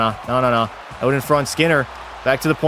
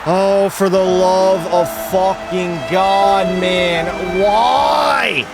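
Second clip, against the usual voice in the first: furious shout; 4 semitones higher, much slower than usual. Real, not acted. Goalie raging at the goal he let in, furious shout. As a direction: howl at the game in disbelief. Goal against, losing his mind.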